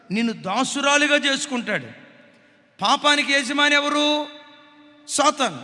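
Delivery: loud, driving sermon delivery; fiery preaching. Acted. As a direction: pound the warning home from the pulpit. Preaches at full force. (ఉద్వేగంగా గట్టిగా ప్రసంగం)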